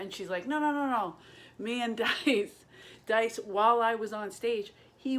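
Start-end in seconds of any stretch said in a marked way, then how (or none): 0.5-1.2 high, loud string of refusals; urgent stopping. Retold or imitated. Wife stopping the angry comic going out, high insistent refusal. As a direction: cut them off with raised, insistent voice.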